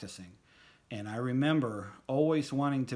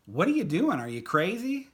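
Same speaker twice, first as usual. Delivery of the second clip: incredulous, louder and higher; imagined look; 8 semitones higher, 8 dB louder than usual. Retold or imitated. Friend staring across the band room, louder incredulous disbelief. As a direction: voice the disbelief of a silent stare. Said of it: "he was giving me the look like".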